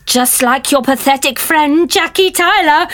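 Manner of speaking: hammed-up sinister threat; menacing villain. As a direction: play the gloating villain. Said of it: "I'm only messing".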